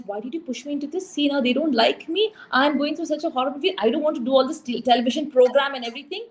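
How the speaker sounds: retold teen tantrum. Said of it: "a typical sixteen-year-old girl throwing a fit".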